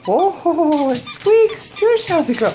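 high, loud, drawn-out delight; excited doggy talk. Real, not acted. Owner squeaks new toy for dog, excited doggy talk. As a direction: marvel at it for your dog.

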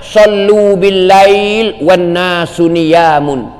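drawn-out chanted hadith; slow Arabic recitation. Acted. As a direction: intone the Arabic slowly and reverently. (bacaan hadis Arab yang perlahan dan berlagu)

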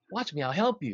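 urgent, lifted offer of help; eager helper. Retold or imitated. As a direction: rush to rescue him. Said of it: "He's like".

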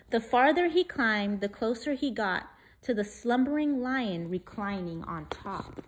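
put-on lively rhyming read-aloud for kids; story reading. A narrator's reading. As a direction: read it like a bedtime picture book. Reads rhyming picture book.

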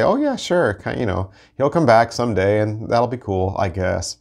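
casual shrug of a voice, mock indifferent; lightly voiced bored believer; nonchalant. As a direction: toss it off like lip service. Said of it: "not like in a nonchalant, casual way".

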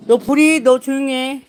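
loud hush to the dog; telling off. Real, not acted. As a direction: hush the barking dog firmly. Owner scolding barking dog.

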